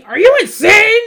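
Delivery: shrill, loud scream of disbelief; mock scream of Thomas.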